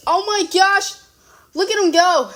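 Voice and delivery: excited. Real, not acted. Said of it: "Sorry, that was loud".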